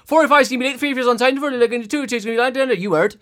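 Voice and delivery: high, loud, rattled-off mock announcer; imitating a brusque stand-in announcer yelling; shouted announcement. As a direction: bellow the train times in one impatient burst. Stand-in announcer, contrasted with leisurely regular.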